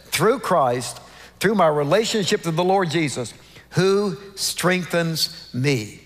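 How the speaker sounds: "Through Christ" i "who strengthens me" wydobyte, końcówka bardzo wolno; połóż nacisk na "Through Christ" i zwolnij na "who strengthens me"; stress on Through Christ. Shown as a demonstration. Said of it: "The emphasis is on what he says".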